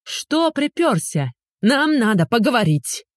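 high sharp shout across the yard. A narrator's reading. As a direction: yell it at the uninvited ex. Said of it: "прокричала". (крикнула через калитку)

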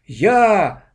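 a loud group shout; chorus. A narrator's reading. The class volunteers together, loud. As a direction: shout it as one voice. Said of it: "раздался дружный хор".

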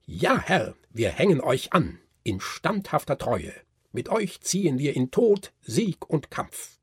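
the dolls shouting their loyalty to the Nutcracker, fervent. Acted. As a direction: swear allegiance with fire. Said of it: "schrien heftig".

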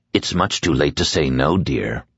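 a gentle, chilling endearment; the dark man tells Nadine it is too late, low; dark man's voice. Acted. Dark man refuses her refusal.

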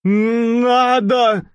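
high, drawn-out tramp voice; crazed tramp. Acted. Tramp refusing to let go of the bike, drawn-out. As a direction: insist like a madman.

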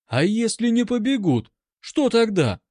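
worried, stress что; anxious voice. A narrator's reading. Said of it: "тревожный голос". (тревожно, с ударением на «что»)

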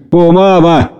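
выше, с отчаянием в голосе; сдержанное отчаяние; в отчаянии. A narrator's reading. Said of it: "в отчаянии сказала Нэнси". (Нэнси видит маму с джином, с отчаянием)

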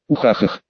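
злодейский смешок вполголоса; короткий хохот тёмного властелина; зловещий смех. Acted. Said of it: "обломал мой зловещий смех". (негромкий злодейский хохоток)

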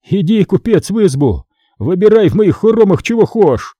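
mildly voiced bitter peasant mocking the merchant; bitter mockery. A narrator's reading. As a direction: sneer as you invite him in. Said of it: "встретил его злым смехом".

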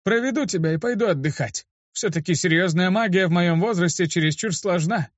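creaky. A narrator's reading. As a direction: creak on about being too old for this. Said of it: "проскрипел он". (скрипучий голос усталого старика)

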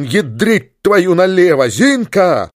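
slow, furious curse; angry yell. Acted. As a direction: snarl the curse, then yell. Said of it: "заорал он". (гневный крик)

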